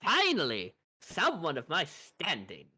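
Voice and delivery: loud first word, then slow and drawn out; haughty spellcaster. Acted. Spellcaster meeting a fellow practitioner at last, grandly relieved. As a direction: proclaim it grandly, stretching the end. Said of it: "She goes".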